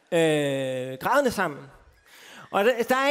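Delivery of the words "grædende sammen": chuckling through the words; laughing repeat. Real, not acted. Telling the youth group he cried, with a laugh. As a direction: laugh at your own confession. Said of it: "Jeg bryder grædende sammen".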